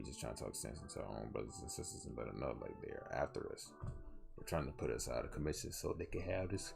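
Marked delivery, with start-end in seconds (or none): 4.3-6.7 talking through a yawn; words stretched by a yawn. Real, not acted. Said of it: "sorry for all this yawning".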